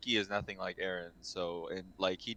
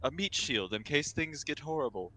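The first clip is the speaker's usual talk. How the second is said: sarcastic relief; 5 semitones higher than usual. Retold or imitated. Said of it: "I was like".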